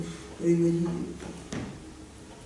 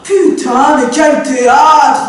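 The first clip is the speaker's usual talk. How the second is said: husband brushing off his wife's anger; dismissive husband; 3 semitones lower than usual. Acted. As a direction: belittle her outburst.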